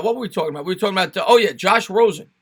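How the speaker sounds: ordinary talk, nothing marked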